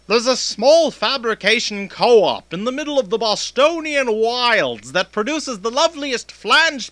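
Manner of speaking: announcer voice-over; polished commercial read. Acted. Ad read again.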